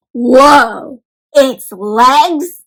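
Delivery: surprised gasp. Real, not acted. Teacher reacts to trade.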